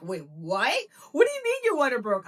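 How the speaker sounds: panicked wait what; shocked husband. Retold or imitated. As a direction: blurt it out in a fluster. Husband shocked from other room.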